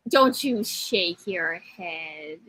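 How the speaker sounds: slow, warning scold; slow playful scold at the co-host; mock scolding. Real, not acted. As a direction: wag a finger with your voice. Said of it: "scolding co-host".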